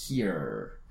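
here with a deep throat R, voice low; english r. Shown as a demonstration. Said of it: "se tocan la garganta ... como vibra". (here con R de garganta)

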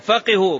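فقهوا said "faqihu", i after the qaf; kasra on qaf. Shown as a demonstration. Teacher asking why this vowel, فقهوا pronounced "faqihu". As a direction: give فقهوا a clear "qi" middle. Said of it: "بالكسر".

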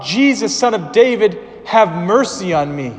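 high, loud plea for mercy; crying out. Acted. Blind man crying out to Jesus, loud high plea. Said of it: "he cried out".

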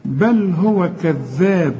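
slow recitation of بل هو كذاب, clean l in بل; clear lam. Shown as a demonstration. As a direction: give بل a clear l with no nasal hum. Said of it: "ما تغنهاش".

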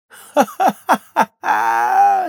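high, loud, drawn-out ha-ha-ha; acted crowd laughter. A narrator's reading. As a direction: laugh loudly as a jeering crowd. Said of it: "смеялся народ". (громкий наигранный хохот толпы)

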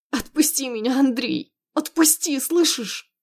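strained, high plea for release; distressed demand. Acted. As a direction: demand to be let go, climbing on the repeat. Wife struggles to be released.

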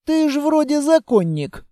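high-pitched bewildered surprise; startled disbelief, voice shooting up; taken aback. A narrator's reading. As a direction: blurt it out, stunned. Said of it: "опешил я".

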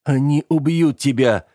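begging, pitched high; pleading again. A narrator's reading. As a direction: plead to make him stay. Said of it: "взмолился я вновь". (взмолиться снова)

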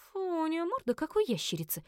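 put-on teen wrinkling her nose; disgusted. A narrator's reading. Daughter disgusted by the creature's face, squeamish. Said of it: "сморщилась Винни".

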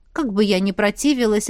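ordinary delivery

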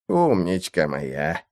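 тихо и медленно, нежно к собаке; понизив голос, ласково. Acted. Лорд гладит собаку. (лорд ласково шепчет своей собаке)

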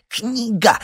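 резкий высокий громкий возглас; сорвись на вскрик; почти вскрик. A narrator's reading. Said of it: "чуть не вскрикнул Синайский". (вскрик выше и громче)

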